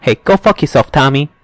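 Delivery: high mock comeback; snapping back at the bully; retold tough guy retort. Spider snapping back at Tommy, mock defiant. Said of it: "He is like".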